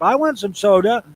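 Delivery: put-on high, loud little kid voice; child voice. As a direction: pipe up like a small child. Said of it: "the daughter pipes up".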